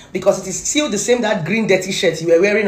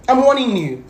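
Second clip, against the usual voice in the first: raised, hard warning; stern warning; 6 semitones higher, 4 dB louder than usual. Real, not acted. Warning the blogger off the widow, raised and stern. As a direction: warn him straight out. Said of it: "I am getting so emotional".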